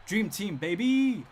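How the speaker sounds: loud, high hype call; gleeful boast. Real, not acted. Bragging that basketball is in the Olympics, excited boast. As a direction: crow it like a proud fan.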